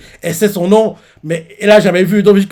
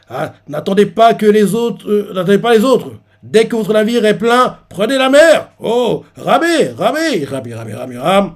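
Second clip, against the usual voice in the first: urging shout; 5 semitones higher than usual. Retold or imitated. Officer urging ships out.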